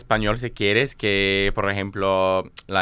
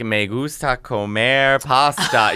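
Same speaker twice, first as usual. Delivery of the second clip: beginner Spanish; 2 semitones higher, slower than usual. Retold or imitated. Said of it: "Nicole Byer's learning Spanish".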